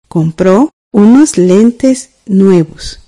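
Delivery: very slow, each word spaced for writing down; teacher rereading the sentence for students to check, very slowly; slow dictation. Shown as a demonstration. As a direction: dictate it again slowly so students can check their copy. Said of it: "escribamos la oración".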